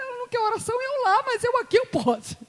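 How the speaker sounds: very high, urgent retort; tearful insistence. Retold or imitated. Preacher defending her prayer to friend, high and insistent. Acted insistent answer while praying.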